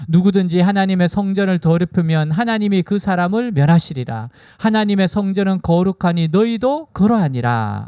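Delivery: measured, formal Bible reading voice; scripture reading. Acted. Preacher reading Corinthians aloud to the congregation, formal and measured. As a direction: read it out like a solemn proclamation.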